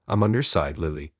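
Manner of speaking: steady, resolute promise; firm reassurance. Acted. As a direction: say it firmly, standing by her. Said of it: "I spoke firmly".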